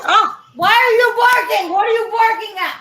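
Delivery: high-pitched scolding at the barking dog. Real, not acted.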